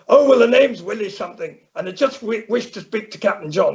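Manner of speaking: mock Irish farmer on the phone; Irish caller. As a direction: put on the old farmer's Irish lilt. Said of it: "we can speak in an Irish accent".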